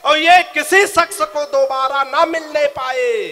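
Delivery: slow, drawn-out reciting of the verse; poetic recitation. Shown as a demonstration. Poet finishes the couplet for the audience, slow and drawn out. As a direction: stretch each line out like a poet at a mushaira. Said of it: "सुनिएगा".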